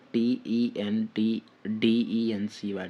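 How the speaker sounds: slow, separated letters; spelled out slowly. Shown as a demonstration. Teacher gives students a spelling to note, slowly letter by letter. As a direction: dictate each letter slowly.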